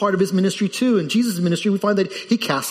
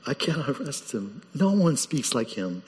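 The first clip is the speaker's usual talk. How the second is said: hushed awe; 6 dB quieter than usual. Acted. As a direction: say it softly, still in awe. Officers awed, repeating softly.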